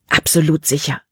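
understated irritated snap; a touch of a hiss, kept contained; snapped reply. A narrator's reading. Caleb answers Libby's doubt with a mild snap. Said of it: "fauchte Caleb".

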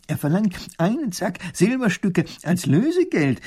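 high, loud hurried professor; excited professor voice; professor reporting quickly. Acted. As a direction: blurt out the news. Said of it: "berichtet Professor Pfiffikus schnell".

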